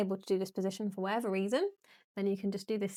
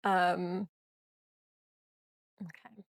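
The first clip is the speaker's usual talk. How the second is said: speaking mid-yawn; words pulled out of shape by a yawn; slower than usual. Real, not acted. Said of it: "I'm yawning".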